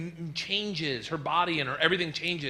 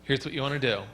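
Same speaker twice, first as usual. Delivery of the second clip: calm nurse instructions; 4 semitones lower than usual. Retold or imitated. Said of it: "She's like".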